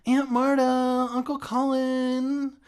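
high, loud drawn-out call. Acted. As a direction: call down the hall. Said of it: "I started calling".

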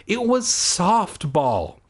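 slow, choking words; choked out. Acted. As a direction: struggle each word out. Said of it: "I choked out".

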